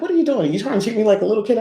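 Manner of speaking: high, fast indignant quote; mock protest. Daughter objecting to being treated like a toddler, mock indignation.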